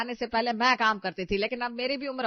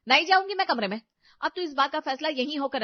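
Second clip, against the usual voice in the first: defiant shout; 3 semitones higher, 3 dB louder than usual. Acted. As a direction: refuse flat out and loudly. Bride defies mother-in-law. (गुस्से में ज़िद्दी इनकार)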